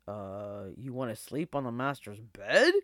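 put-on hesitant old dog, rising question; puzzled old dog. A narrator's reading. Old dog misunderstanding the wolf's demand, puzzled.

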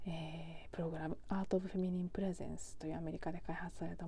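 half-whispered, intimate podcast voice; breathy near-whisper for late-night listeners; hushed talk. Real, not acted.

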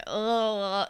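hesitant, drawn-out groan, imitating reluctance; nervous. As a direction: mimic someone nervously stalling. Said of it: "nervous slash doesn't really wanna".

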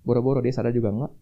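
sudden loud, indignant outburst; fed-up anger. Retold or imitated. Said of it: "saya marah".

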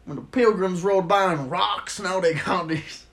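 lightly voiced old man tree. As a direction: grumble about the good old days. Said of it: "see their grandparent trees".

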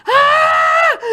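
very high panicked mock scream; hammed-up shriek of alarm; imitated mother's scream. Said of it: "Começou a gritar".

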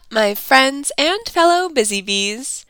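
stuffy, nasal sick voice. Real, not acted. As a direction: talk through a blocked nose. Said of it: "like I'm talking through my nose".

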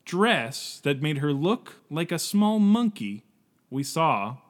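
slow, showy mock interpreter voice; slightly wrong copied voice. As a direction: ham it up as the translator. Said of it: "mimicking your voice so that I can translate".

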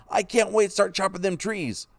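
put-on high, thrilled boy, stressing wait; boy telling Pa he longs to chop trees; excited, eager. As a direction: keep the excitement rolling. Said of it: "He felt so excited".

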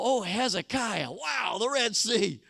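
a hint of a gushing tourist, hushed then brighter; mock sightseer marvelling at the sea; awed tourist. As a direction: Israelites at the Red Sea, lightly acted wonder. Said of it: "And you can hear 'em".

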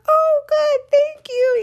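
high, loud mock-cheery reply; amused neighbour. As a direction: answer the kid with amused politeness. Neighbour answers the shouting child.

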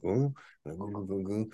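small wordless drinking noises; imitated grunt and gulping. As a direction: mimic taking a bottle and drinking. Mimics receiving and gulping the bottle.

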